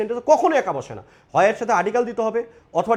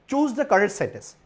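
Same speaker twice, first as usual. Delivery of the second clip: slow read-out; much slower than usual. Shown as a demonstration. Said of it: "correct সেন্টেন্সটা আমাকে এখানে বাছাই করতে".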